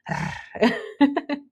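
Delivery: trilled purr, then a high giggle; playful purr into laugh. Shown as a demonstration. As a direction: purr cheekily and burst out laughing. Playful purr after confidence boast.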